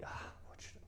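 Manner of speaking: breathy whispered dithering; unsure whispered mumble; musing whisper. Acted. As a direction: whisper it to yourself while deciding. Acting out indecision aloud.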